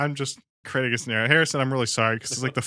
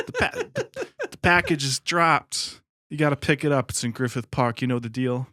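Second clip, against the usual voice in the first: rambling drifter character voice; homeless voice; 2 semitones higher, slower than usual. Acted. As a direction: play a cracked street vagrant. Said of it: "you wanna do your homeless voice again".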